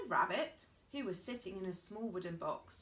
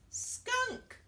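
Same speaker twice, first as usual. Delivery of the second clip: much higher, louder punchline; triumphant reveal; 5 dB louder than usual. Acted. Pig proudly announcing his guess, high and loud. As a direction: land the word like a big reveal.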